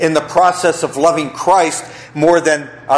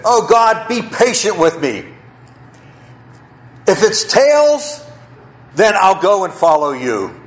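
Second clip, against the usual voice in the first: 1 pleading prayer; 4 semitones higher than usual. Acted. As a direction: cry out to God in earnest. Pleading with God in story.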